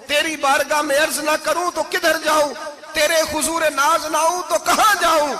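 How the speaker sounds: mock weeping prayer. Preacher acting a weeping supplicant, rising from hushed to crying out. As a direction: plead with God, starting hushed and rising to a cry. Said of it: "जब मैं यूं रो के दुआ करूंगा".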